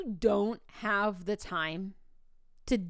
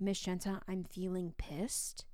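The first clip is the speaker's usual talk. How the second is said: retold student whisper; 2 semitones lower, 8 dB quieter than usual. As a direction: imitate a student confiding quietly. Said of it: "a student whispered to me".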